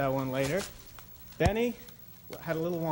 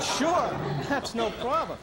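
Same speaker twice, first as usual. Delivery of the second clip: laughing reply; 5 semitones higher, slower than usual. Acted. Benny accepts the bet, laughing.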